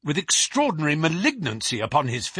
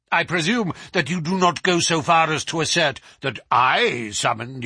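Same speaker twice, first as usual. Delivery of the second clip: put-on suspicious old professor; 4 semitones higher, 4 dB louder than usual. Professor presses Holmes.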